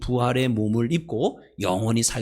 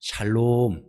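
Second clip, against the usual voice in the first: normal talking voice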